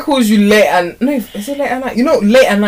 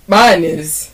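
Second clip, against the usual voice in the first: deeper voice; 5 dB louder than usual. Acted. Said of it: "You just went deeper to prove a point".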